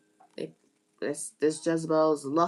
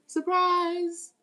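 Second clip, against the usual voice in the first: high, loud sing-song surprise; spring it on them like a party reveal; shouted triumphant surprise; gleeful exclaim; 12 semitones higher, 4 dB louder than usual. Real, not acted. Repeated taunt to the haters.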